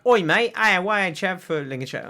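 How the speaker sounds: lightly voiced rowdy lad; "Oi, mate" with some bark; mock lad shout. Reading a chat quote as a lad.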